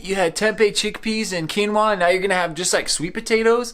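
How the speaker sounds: high, doubtful questioning; incredulous viewer voice. Retold or imitated. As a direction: play the shocked skeptic. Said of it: "you're probably like".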